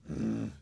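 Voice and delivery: closed-mouth "mm" of disgust; imitated queasy groan. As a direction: imitate someone groaning at a bad taste. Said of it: "So Töne von sich am geben". (angeekeltes Mm nachgemacht)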